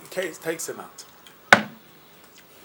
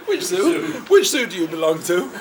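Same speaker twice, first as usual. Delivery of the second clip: laughing; 4 semitones higher, 6 dB louder than usual. Retold or imitated. Laughing while retelling question.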